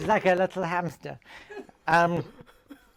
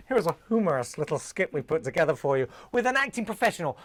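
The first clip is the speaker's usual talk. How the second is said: announcer voice; 2 semitones lower, faster than usual. Pretend. Announcer voice opening skit.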